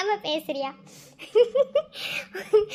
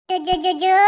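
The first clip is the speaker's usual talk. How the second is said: lulling coo. Acted. Mother lulling crying baby.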